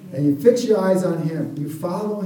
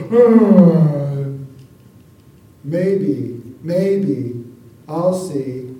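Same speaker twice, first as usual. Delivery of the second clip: mock reluctant shrug; 3 semitones lower, 6 dB louder, much slower than usual. Lukewarm churchgoers mocked.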